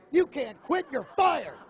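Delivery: mock boss. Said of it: "a guy's way of saying".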